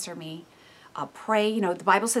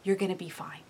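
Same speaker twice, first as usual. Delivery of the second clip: put-on whispered reassurance to a little child; soothing whisper; 6 dB quieter than usual. Mother whispering comfort to a weaning child. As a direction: hush the child gently. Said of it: "you're telling that, that child".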